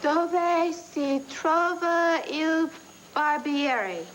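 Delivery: slow, careful Italian phrasebook practice; sounding out Italian word by word; halting Italian phrase. Acted. Wife drilling her Italian for the trip, slow and careful. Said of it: "I'm working on my accent".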